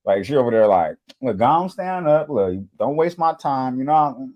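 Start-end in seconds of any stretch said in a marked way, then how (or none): 1.2-3.8 mock auntie. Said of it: "she hitting them like auntie".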